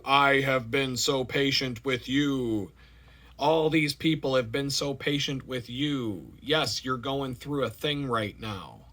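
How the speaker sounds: lightly voiced God scolding kindly; God's voice. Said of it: "hearing God's voice".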